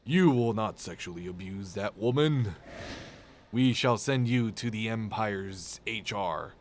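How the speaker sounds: a hint of a stern Vader; lightly voiced pompous Vader; mock Darth Vader. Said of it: "Darth Vader would be like".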